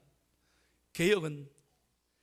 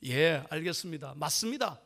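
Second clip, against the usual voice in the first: calm reply; 4 semitones lower than usual. Retold or imitated. Pastor's calm reply to angry member.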